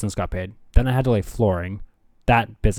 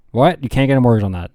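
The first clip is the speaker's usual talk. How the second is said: louder, mock-shocked questioning; incredulous echo; 5 dB louder than usual. Friend hears there is no mortgage for land, incredulous. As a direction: play a friend taken aback.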